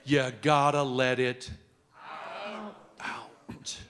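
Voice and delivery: slow explanation. Shown as a demonstration. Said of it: "There seems to be a problem".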